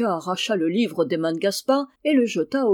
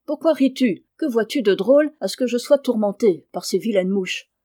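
annoyed; 2 semitones higher, 5 dB louder than usual. Acted. Boys quarrel over tickling.

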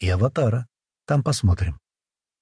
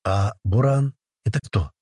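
timid. Acted. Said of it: "робко спросила она с опаской".

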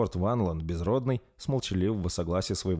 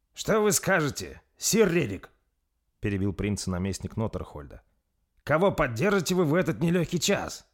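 pressing question; 7 semitones higher than usual. A narrator's reading. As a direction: push him to answer. Governor presses lord Svan. (наместник торопит лорда Свана, выше и медленнее)

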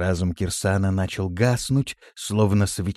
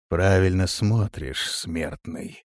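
quiet sinister voice; 2 semitones lower, slower than usual. Acted. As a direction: menace it softly from the shadows. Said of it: "раздался тихий, но зловещий голос". (тихий зловещий голос)

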